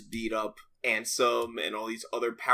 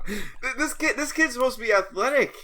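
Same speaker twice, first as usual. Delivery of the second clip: laughing; 10 semitones higher than usual. Real, not acted. Laughing at the story.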